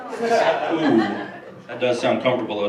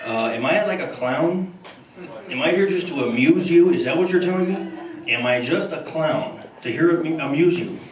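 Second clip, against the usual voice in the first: lightly voiced Carson, mock menace; a hint of Pesci's clown speech; Johnny Carson as Pesci. Carson grills Bush, understated menace. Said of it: "George Bush and Johnny Carson".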